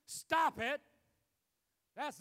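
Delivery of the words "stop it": Jesus's sharp command. Acted. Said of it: "if Jesus has to say to me".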